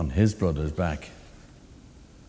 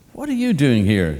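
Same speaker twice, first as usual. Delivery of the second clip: put-on high, loud cawing old bird; old crow voice; 6 semitones higher, 6 dB louder than usual. A narrator's reading. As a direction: squawk it like a nosy crow.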